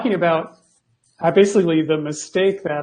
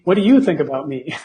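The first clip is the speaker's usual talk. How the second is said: laughing quote. Retold or imitated. Laughs through a movie quote.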